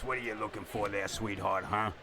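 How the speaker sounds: a light hint of a crooning old radio DJ; old-timey radio host. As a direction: coax the listener like a fifties DJ, lightly. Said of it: "Old-timey radio".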